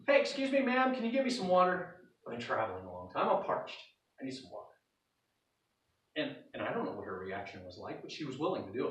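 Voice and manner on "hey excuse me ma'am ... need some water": pushy stranger. Acted. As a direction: push for the water, then fade to a parched hush. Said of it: "this just seems kind of pushy".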